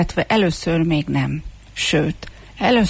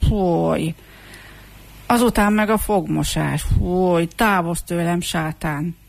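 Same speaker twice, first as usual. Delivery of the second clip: shuddering disgust. Acted. Shaggy hooligan backs away from comb and washing, shuddering with disgust. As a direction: back away as if from something loathsome. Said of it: "Fújolva és borzongva hátrált".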